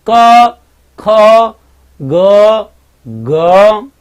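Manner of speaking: क ख ग ग each said alone with a pause between; sounding out letters. Shown as a demonstration. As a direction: demonstrate क ख ग ग clearly, one at a time. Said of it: "आप बोल के देख लो".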